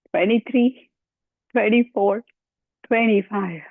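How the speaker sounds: counting reps while straining, breath short; pushed count through a held belly squeeze. Real, not acted. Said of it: "I'm out of breath".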